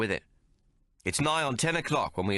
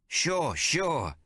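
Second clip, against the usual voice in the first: Billy agreeing; 7 semitones higher than usual. A narrator's reading.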